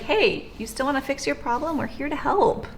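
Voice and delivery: easygoing follow-up, pitched a little up; casual and cool. Acted. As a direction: offer help casually, no pressure. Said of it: "we keep things really casual and cool".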